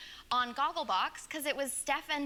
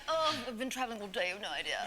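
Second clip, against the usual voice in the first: copied hotel-host voice; 3 semitones lower, 3 dB quieter, much faster than usual. Retold or imitated. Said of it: "slowly transition out of it".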